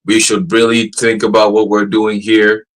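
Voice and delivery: slow, deliberate robot reply at normal pitch; imitated measured AI tone. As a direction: mimic the chatbot, measured and even. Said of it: "the pitch, tone ... it went from".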